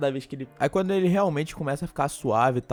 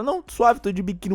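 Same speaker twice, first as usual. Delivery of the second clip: put-on casual girl; 6 semitones higher, 4 dB louder than usual. Girl unbothered in a bikini.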